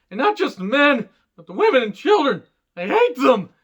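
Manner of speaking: mock the prequel's angsty Anakin line, pitched well up; Hayden Christensen's Anakin. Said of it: "it's like Hayden Christensen from episode two".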